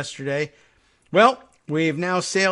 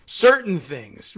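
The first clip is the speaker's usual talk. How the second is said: evasive Trump; 4 dB louder, slower than usual. Retold or imitated. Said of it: "Trump dodging again".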